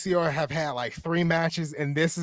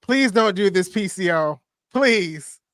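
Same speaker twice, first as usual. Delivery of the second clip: begging; 2 semitones higher, 4 dB louder, slower than usual. Real, not acted. Watcher begs the wrestler not to do it, pleading. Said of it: "Why am I begging him?".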